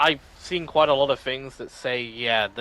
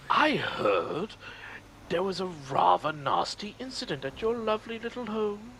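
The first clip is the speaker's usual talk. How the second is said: put-on, falsely polite higher voice; condescending imitation; 7 semitones higher, slower than usual. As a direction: imitate a smug man feigning sympathy. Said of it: "very condescending. Like, the way he says".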